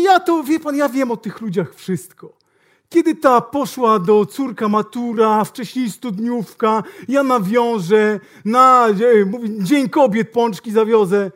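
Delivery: hammed-up salesman; loud bragging salesman. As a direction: drag out the boast. Salesman brags about clients.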